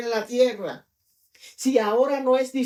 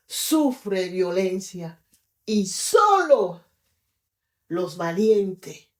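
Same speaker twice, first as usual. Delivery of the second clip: solemn preaching; 7 semitones lower, much slower than usual. Acted.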